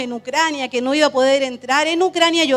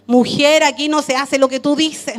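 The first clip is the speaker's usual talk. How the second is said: louder, firm soldier rebuke; a sterner, louder soldier putting her in her place; 3 semitones higher, 5 dB louder than usual. Retold or imitated. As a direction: bark the officer's refusal at her.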